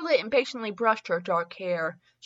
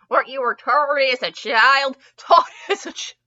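over-enunciated retake; 4 semitones higher, 5 dB louder than usual. Real, not acted. Reader retaking a tripped-over line, over-enunciated.

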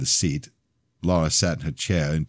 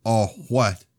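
higher, louder mocking challenge; sneering shout of the bully cousin; goading taunt; 10 semitones higher, 4 dB louder than usual. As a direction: bait him into a fight. Ronnie goading Joshua to fight.

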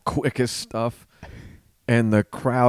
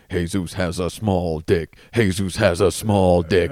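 robotic voice; 4 semitones lower than usual. Retold or imitated. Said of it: "in a robotic voice".

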